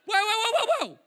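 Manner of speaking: loud, high rapid interjection; hammed-up indignant objection; alarmed protest. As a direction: cut in to halt everything at once. Acts out jealous protest, retold.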